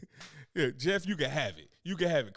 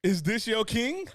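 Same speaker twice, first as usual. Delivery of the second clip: slow, drawn-out, a bit higher; slow mocking ask; 5 semitones higher, slower than usual. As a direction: stretch it, pushing harder. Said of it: "they go".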